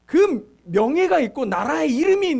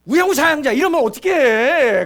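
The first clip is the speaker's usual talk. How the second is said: louder, clipped drill sergeant call; barked drill command; 6 dB louder than usual. Retold or imitated. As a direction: bark the marching order like a drill instructor. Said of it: "그렇게 얘기하니까". (훈련 조교처럼 크게 외치는 구령)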